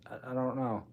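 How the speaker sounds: words stretched by a yawn. Real, not acted. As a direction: talk through a yawn. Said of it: "I yawned that time".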